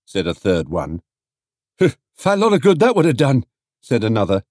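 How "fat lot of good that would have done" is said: fast, higher sarcastic quip; scoffing trader. A narrator's reading. Trader mocks the note idea, scornful. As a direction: brush it off with scorn.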